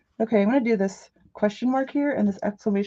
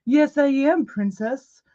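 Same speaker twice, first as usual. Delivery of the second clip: haughty princess voice, slow and higher; prissy princess; 4 semitones higher, slower than usual. Retold or imitated. Friend answering the delivery guy, hair flip, mock princess voice. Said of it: "flipping her hair like".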